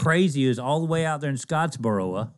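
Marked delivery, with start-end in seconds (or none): 1.3-2.3 "Scottsboro" said as "Scottsboro-uh"; extra "uh" ending. Retold or imitated. Copying the booth's announcers, "Scottsboro" with an added "uh". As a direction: tack a loose "uh" onto "Scottsboro". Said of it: "Why do you say in Scottsboro?".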